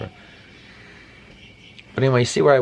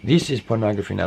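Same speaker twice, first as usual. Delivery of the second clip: put-on Russian accent. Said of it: "That's my Russian imitation".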